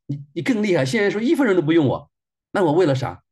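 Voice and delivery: high, pleading wail of complaint; tearful outburst. Retold or imitated. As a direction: cry out what it all cost. Crying out grievance to God.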